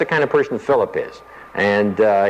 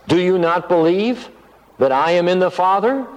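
higher, insistent, expecting yes; emphatic question; 6 semitones higher than usual. Shown as a demonstration. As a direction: press hard for a yes. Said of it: "it emphasizes the answer".

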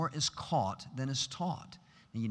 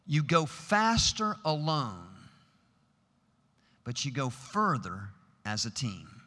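"faster" drawn out and stressed, slow delivery; slow, weighty statement; slower than usual. Shown as a demonstration. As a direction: lay down "You go faster alone" slowly, like a principle. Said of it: "Here's the principle".

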